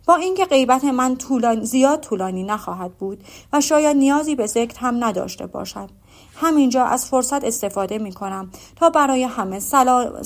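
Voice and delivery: a fussy suitor showing off his courtesy; Mr Collins farewell speech. Acted. Collins taking leave of the Bennet ladies, pompous and loud.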